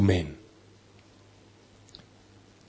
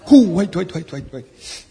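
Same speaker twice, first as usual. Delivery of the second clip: higher, fading into a whisper; startled double take; 6 semitones higher, 4 dB louder, slower than usual. Retold or imitated. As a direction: stop short in disbelief, then hush. People reacting to Trump at door.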